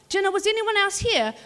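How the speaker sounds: high, loud exasperated question; can't believe what she's hearing; exasperated disbelief. Retold or imitated. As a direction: boss at the end of her rope. Boss questions kid in disbelief.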